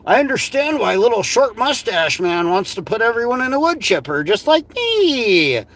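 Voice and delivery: mock the clip, drawing out the last word; mocking echo. Streamer parroting the man in the clip, mocking.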